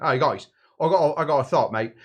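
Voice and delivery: wobbly mock-English bloke pitching an idea; English accent. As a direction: do a rough, matey English accent. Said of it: "probably with an English accent".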